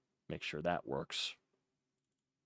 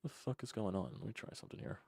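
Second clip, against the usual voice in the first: softer, half-whispered frustration; muttering to himself; 3 semitones higher, 9 dB quieter than usual. Real, not acted. Host fixing broken audio, muttering under breath. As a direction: grumble it under your breath.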